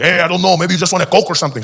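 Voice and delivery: jokey street-seller comeback; a hint of the loud taco seller; taco vendor. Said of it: "he's like".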